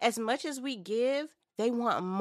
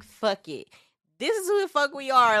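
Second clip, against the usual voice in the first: defiant shout; 6 semitones higher, 10 dB louder than usual. Retold or imitated. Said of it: "I was just like".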